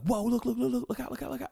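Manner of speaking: urgent warning. Retold or imitated. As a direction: warn your friend fast and high. Canyon warning Jake of attack.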